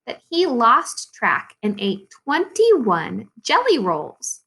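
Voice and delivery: measured read-aloud with lilting key words; children's story reading. Acted. Teacher reads Mister Putter and Tabby to second graders, storytelling.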